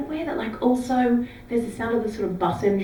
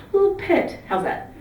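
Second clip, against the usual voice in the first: put-on Geordie accent; 9 semitones higher, slower than usual. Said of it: "except in your accent".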